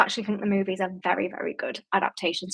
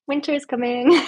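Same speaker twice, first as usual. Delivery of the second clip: playful northern Stark accent, a touch higher and louder; attempting a Stark accent on a viewer's request; mock Stark accent; 5 semitones higher, 4 dB louder than usual. Shown as a demonstration. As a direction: give it your best Stark accent, hammed-up. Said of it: "a hundred percent a Stark accent".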